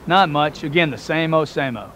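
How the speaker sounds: imitating a dull, deflated same old; bored mundane reply. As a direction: sound like nothing ever happens to you. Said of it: "Do you think that's how successful people talk?".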